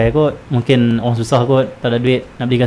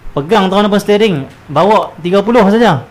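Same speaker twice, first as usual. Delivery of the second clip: mock cautious driver; 7 semitones higher, 3 dB louder than usual. Careful driver insisting on slow speed.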